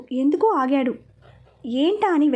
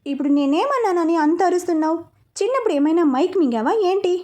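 higher, irritated comeback; a touch of annoyed protest; mild angry retort; 4 semitones higher than usual. Acted. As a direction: snap back, pitched up, mildly cross. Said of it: "కోపంగా అన్నాడు".

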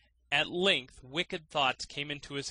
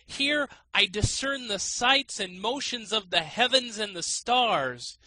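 grand boastful sage; 7 semitones higher, 5 dB louder than usual. A narrator's reading. Man in the sack dupes the student, high and grand. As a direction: puff up like an all-knowing oracle.

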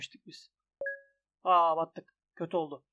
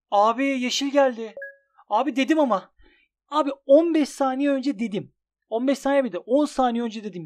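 loud, higher i-told-you-so shout; exasperated shout; 4 semitones higher, 7 dB louder than usual. Real, not acted. Gambler shouting at viewers that he predicted green. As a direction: rant that he called it earlier. Called green, complaining loudly.

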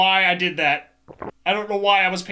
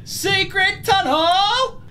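theatrical announcer; 8 semitones higher, 3 dB louder, much slower than usual. Pretend. Discovers tunnel, theatrical exclaim.

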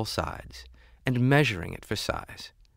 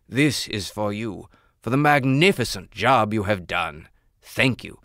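louder, gracious royal voice; gracious king; 5 dB louder than usual. Acted. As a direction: reward him generously. King rewards the jeweler.

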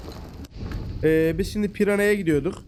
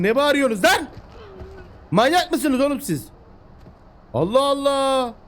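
exasperated scolding; 7 semitones higher than usual. Real, not acted. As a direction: scold the shrieking pack. Scolding noisy animals.

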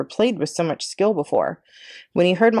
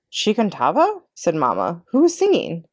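1 curious Mama. Acted.

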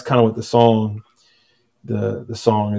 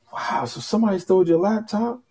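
wife's casual question; 9 semitones higher, 5 dB quieter than usual. Retold or imitated. Wife asks after eating.

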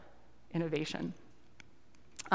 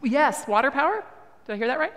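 calling out; 6 semitones higher, 7 dB louder than usual. Real, not acted. Checking an audience shout.

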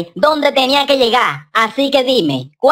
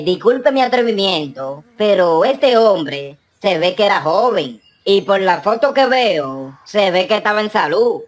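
curious mourner; 3 semitones lower than usual. Acted. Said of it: "Un hombre ... le pregunta".

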